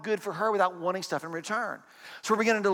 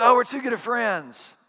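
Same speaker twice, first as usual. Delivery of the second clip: higher, louder, slow mocking sing-song; mock cliché; 6 semitones higher, 5 dB louder than usual. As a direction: parrot the tired old excuse.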